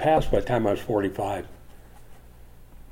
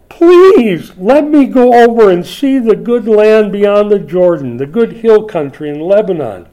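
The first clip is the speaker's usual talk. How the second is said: high, loud plea, first word drawn out; whiny begging; 7 semitones higher, 6 dB louder than usual. Acted. Moses pleading to enter the land, whiny begging. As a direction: beg hard like a whining child. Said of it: "in a whiny enough voice here".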